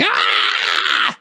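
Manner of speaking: imitating her sudden yelp of fright; retold scream. Retelling the shipmate's startled yelp when the swab hit. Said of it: "she starts screaming".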